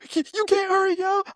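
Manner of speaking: high mocking sergeant voice; mock drill sergeant; imitating drill sergeant. Sergeant rushing recruit.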